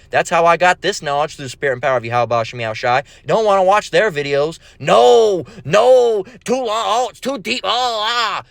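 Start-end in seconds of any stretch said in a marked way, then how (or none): 4.8-8.4 high, whiny mock protest; mock whining. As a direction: moan like a reluctant viewer, hammed-up. Mimics viewers refusing to watch.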